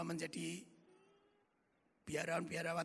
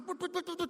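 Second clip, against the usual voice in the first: higher quick put put of frames; rapid put sounds; 9 semitones higher, faster than usual. Retold or imitated. Describing the film of faces racing past, quick put sounds. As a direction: rattle off the frames flashing by. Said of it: "Itu semua cepat sekali".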